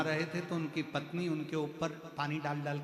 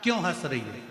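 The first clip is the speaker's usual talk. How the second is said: louder, higher angry demand of a king; 7 semitones higher, 3 dB louder than usual. Retold or imitated. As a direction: scold her sharply for laughing. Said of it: "गुस्सा आया".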